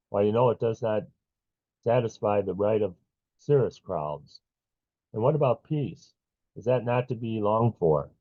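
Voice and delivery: measured poetry recital with long pauses; poem reading. Acted. Poet reading to a poetry-night audience, measured recital. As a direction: read the poem phrase by phrase, deliberately. Host reads own poem aloud.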